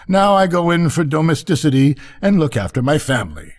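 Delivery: high-pitched duck lady voice; chatty duck. Acted. Duck remembering her public ambitions, placidly chatty.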